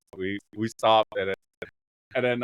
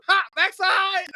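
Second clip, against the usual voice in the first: higher, slow, louder teasing "Ha, backside!"; mom's mocking laugh; 4 dB louder, slower than usual. Imitating his mom teasing him about the backside, higher and slow. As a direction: drag it out like a mom cackling at her own joke. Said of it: "picturing my mom going".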